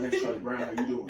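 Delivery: lightly voiced smooth old grandpa. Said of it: "He got the smoothest voice ever".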